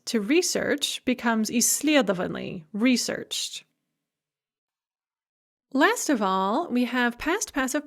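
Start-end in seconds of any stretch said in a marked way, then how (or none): 1.5-2.6 исследованы stressed on the second syllable, сле; unmoved stress. Shown as a demonstration. Teacher showing stress that stays put, сле stressed in исследованы. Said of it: "it remains on the same syllable".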